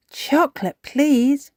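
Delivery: put-on high, lifted child-character request; Susie Sheep. A narrator's reading. Susie Sheep orders from the shop, high polite request. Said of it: "Susie Sheep said".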